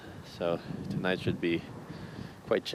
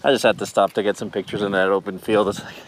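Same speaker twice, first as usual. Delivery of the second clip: raised outdoor voice; 3 semitones higher, 8 dB louder than usual. Real, not acted. Shouting over wind after ride.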